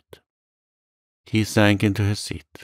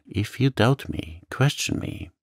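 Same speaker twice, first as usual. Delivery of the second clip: mildly pleading, higher at first; understated earnest cry; unhappy plea; 4 semitones higher than usual. Acted. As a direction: beg to be questioned. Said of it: "cried the unhappy young man".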